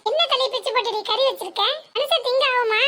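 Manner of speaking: என்ன hit hard and falling, indignant; indignant outburst. Acted. Mother-in-law scolding over the curry, indignant. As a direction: demand it in outrage, leaning on என்ன. Outraged at fish head curry.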